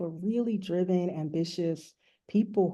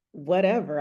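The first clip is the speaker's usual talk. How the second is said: retold offhand shrug of a whatever; flippant; 4 dB louder than usual. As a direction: toss it off like you don't care. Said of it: "I'm really flippant with my response to her".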